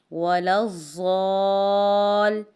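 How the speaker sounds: ولا الضال slowly, with the ل stressed and doubled; doubled lam. Shown as a demonstration. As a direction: press the شد on ل in الضال. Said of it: "لام پر شد ہے". (الضال میں لام شد کے ساتھ)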